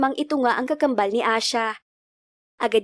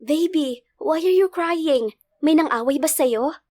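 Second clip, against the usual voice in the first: higher, drawn-out motherly cooing; concerned mother; 4 semitones higher, slower than usual. Acted. Mother asking crying daughter what's wrong, concerned. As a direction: fuss over a crying little one.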